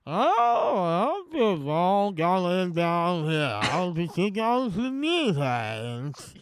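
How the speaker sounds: lip-stretched slow cowboy drawl; Jeff Bridges impression. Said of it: "hold your bottom lip and you stretch it".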